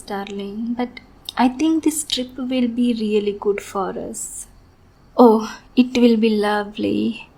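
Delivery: sweet on the surface, unhinged underneath; obsessive sweet lover. Acted. Yandere lover's sweet monologue.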